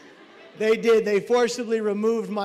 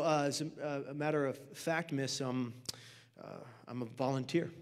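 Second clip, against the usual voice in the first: low, soft, halting mumble; sheepish admission; 8 semitones lower, 9 dB quieter than usual. Acted. Volunteer admits his status to his crush, low halting voice. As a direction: falter through it quietly with ums.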